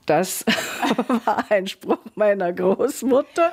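amused, laugh breaking into the words; real chuckle, voice lifting as it goes on. Real, not acted. Guest recalls her grandmother's saying to the interviewer, laughing.

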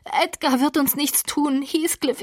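high, frantic begging; cling to him with your voice; desperate pleading. Acted. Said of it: "kreischte sie".

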